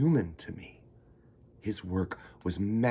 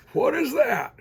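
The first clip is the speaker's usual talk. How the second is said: high, loud startled question; astonished ask; 6 dB louder than usual. Acted. Boy startled by grandpa's strange coat, high surprised question. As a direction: gasp out the question.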